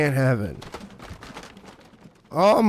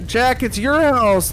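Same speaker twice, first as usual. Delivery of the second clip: excited shout; 3 semitones higher, 4 dB louder than usual. Real, not acted. Yelling about the house.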